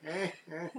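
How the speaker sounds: imitated Renfield laugh. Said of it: "does his laugh".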